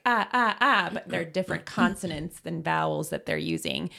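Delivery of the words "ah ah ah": babbling. Shown as a demonstration. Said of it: "So it's not just like".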